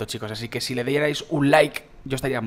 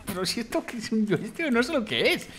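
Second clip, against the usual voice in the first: high, giggling disbelief, talking through laughter; can't stop laughing at the silly gun; 8 semitones higher, 5 dB quieter than usual. Real, not acted. Youtuber laughing at the weird new gun in game. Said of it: "cuidado que me estoy riendo".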